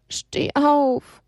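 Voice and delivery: high, urgent plea; pleading. Acted. Elia begging Haberle to stand, high and urgent. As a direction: beg him to stand. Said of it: "flehte Elia".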